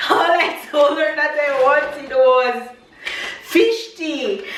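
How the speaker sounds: half laughing, half crying over the gift; laughing through tears. Real, not acted. Mom opening a gift box, laughing through real tears. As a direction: laugh and cry at once, overwhelmed.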